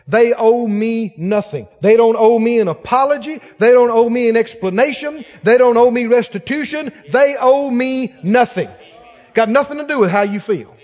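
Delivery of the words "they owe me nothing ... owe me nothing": firm, punched declaration, fairly loud; emphatic declaration. Shown as a demonstration. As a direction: declare each line with force. Modelled declaration of forgiving a debt.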